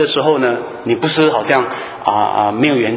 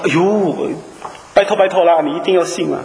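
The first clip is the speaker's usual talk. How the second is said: mock begging; 4 semitones higher than usual. Preacher mimicking an ambassador begging the enemy to believe, high and pleading. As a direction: beg them like a pushover, half in jest.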